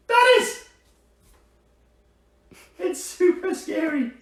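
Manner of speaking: high, loud mock-terrified build-up; hammed-up scary. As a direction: play up the fright for the kids. Hamming up fear for kids.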